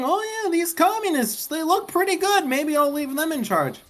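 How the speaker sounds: high-pitched mock French accent; high, teasing French-accent imitation. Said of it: "You're saying".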